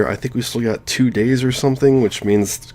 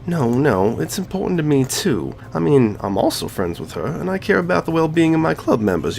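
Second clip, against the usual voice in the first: higher, put-on girl's voice for Monika; playing Monika; 6 semitones higher than usual. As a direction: read Monika's lines in a lifted, girlish voice. Voicing Monika.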